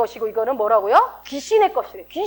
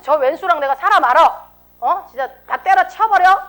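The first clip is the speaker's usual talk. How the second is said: raised, fed-up outburst; acted marital fury; 3 semitones higher, 4 dB louder than usual. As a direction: blow up as if mid-quarrel with a spouse. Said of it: "막 내가 막 너무 화가 치밀어서". (부부싸움하듯 화가 치밀어서)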